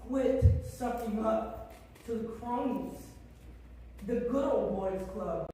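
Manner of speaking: real tearful outrage at the council; starting to cry. Real, not acted. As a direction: voice rising, close to tears. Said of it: "And I'm gonna start crying now".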